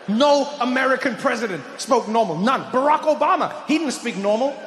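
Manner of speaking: ordinary talk, nothing marked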